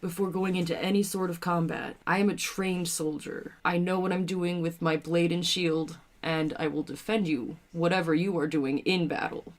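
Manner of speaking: in-character soldier. Acted. Soldier asks party their abilities, measured and soft.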